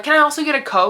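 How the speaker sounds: high, loud, sing-song entitled request; mock entitled customer. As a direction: ham up a spoiled diner. Mocking his entitled request.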